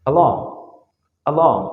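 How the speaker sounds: "along" with a short opening "a"; don't drag the first vowel of "along"; a quick "uh" to start "along"; not drawn out. Shown as a demonstration. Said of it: "আমি কিন্তু টান দিচ্ছি না".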